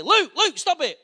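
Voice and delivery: high, loud call to stop a fight; a mum shouting her son's name across the room; calling out sharply. Retold or imitated. Mum yelling at her son to stop punching his brother, loud sharp call.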